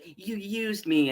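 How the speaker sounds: mildly hammed-up accusation; Evil-Lyn. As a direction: lightly imitate a betrayed villainess. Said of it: "And she's like".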